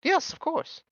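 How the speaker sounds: high, cheerful showman; Mister Light, beaming. Acted. Host praising the guests, high and cheerful. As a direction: beam with pride over the vane.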